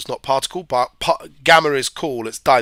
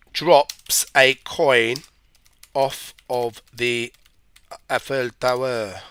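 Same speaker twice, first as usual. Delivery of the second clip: light mock French accent, slow; teacher slipping into a hint of French for the Eiffel Tower; much slower than usual. A hint of French accent while setting the physics problem. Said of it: "It's my French accent".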